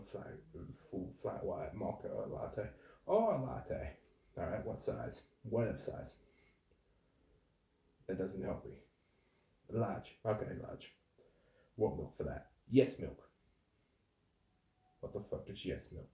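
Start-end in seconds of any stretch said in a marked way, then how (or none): 3.1-3.9 high, loud, dim customer; imitated ditzy customer, much higher; mock airhead customer. Customer naming coffee. 12.7-13.3 loud, confident nonsense reply; mock oblivious customer, louder; clueless customer. Customer answer.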